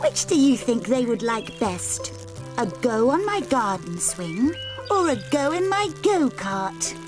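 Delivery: high, gushing and thrilled; delighted girl. Acted. Golden Girl gushing to Annie Apple about the trip. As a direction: brim over with plans.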